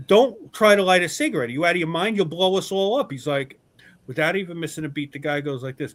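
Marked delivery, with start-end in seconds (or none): 0.1-3.1 alarmed telling-off. Retold or imitated.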